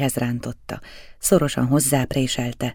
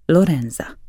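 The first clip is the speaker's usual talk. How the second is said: quiet command; 3 semitones higher than usual. A narrator's reading. Balsamo calls his wife, quiet and commanding. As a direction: summon her softly but firmly. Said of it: "szólította halkan és parancsolón".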